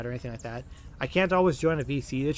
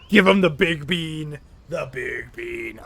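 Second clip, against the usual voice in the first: mock order; 6 dB louder, slower than usual.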